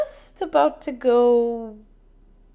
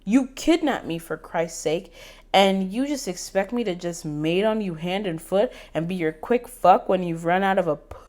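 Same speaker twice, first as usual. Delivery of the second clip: angry rant; 4 dB louder than usual. Acted. Angry confrontation.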